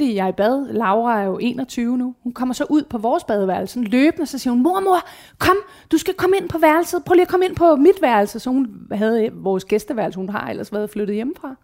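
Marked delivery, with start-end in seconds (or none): 4.6-8.4 higher, louder urgent calling; urgent daughter. Retold or imitated. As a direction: voice the daughter rushing in. Daughter urgently calling her mother. (datteren kalder ivrigt på mor, højere stemme)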